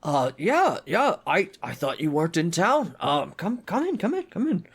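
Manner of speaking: put-on friendly but gruff old dwarf; Priest Deno. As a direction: grumble like a busy, kindly old dwarf. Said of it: "a friendly, but gruff voice".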